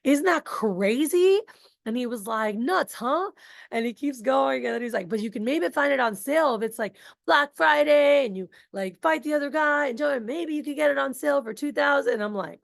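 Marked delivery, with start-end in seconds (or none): 0.0-3.3 oversell it like a pushy rep; mock salesy excitement; salesy hype. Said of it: "he goes". 5.1-12.1 higher, loud pushy sales voice; a hint of pushy salesman; salesy pitch. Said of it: "you sound like one so salesy".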